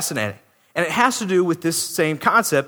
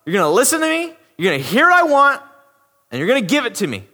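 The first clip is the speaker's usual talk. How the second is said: higher, bossy mock order; rude customer; 4 semitones higher, faster than usual. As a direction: bark orders at a waiter. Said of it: "treat these waitresses ... like they're animals".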